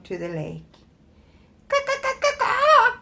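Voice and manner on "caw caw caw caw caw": high wailing goose caws; high mournful cawing; moaning geese. Acted. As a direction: caw as a miserable goose. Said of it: "they moaned".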